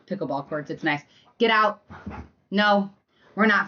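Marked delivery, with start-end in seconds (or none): 1.4-3.7 loud sharp get out; sharp command. Real, not acted. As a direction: bark it at the dog. Scolding dog.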